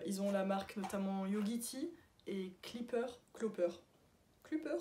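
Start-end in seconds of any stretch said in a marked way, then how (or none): 2.6-3.1 Clipper said with an "i", klee-pur; trying a pronunciation. Real, not acted. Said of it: "Je ne sais plus". 3.3-3.7 Clopper with a rounded first vowel, "klo-peur"; unsure pronunciation. Real, not acted. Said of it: "Je ne sais plus". 4.4-4.8 Clipper as "klü-peur", French u, higher; questioning pronunciation. Real, not acted. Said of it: "Je ne sais plus".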